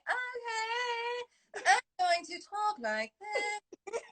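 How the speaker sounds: high, put-on muddled British accent; mixed-up British accent. Actress mimicking her character's Shakespeare in Love phase, muddled British accent. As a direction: drawl a bad English-Scottish-Irish mix. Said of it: "it was her version of".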